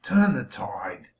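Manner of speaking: slow breathy whisper. Real, not acted. Preacher urging viewers, in a slow whisper. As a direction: drop to a whisper and let it land. Sudden hushed line.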